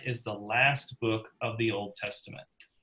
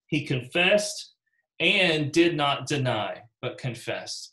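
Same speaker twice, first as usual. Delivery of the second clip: slow, weighty reading; emphatic; slower than usual. Shown as a demonstration. Teacher reading the verse to class, emphatic. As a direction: lean on confessed and deny. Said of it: "emphatically said".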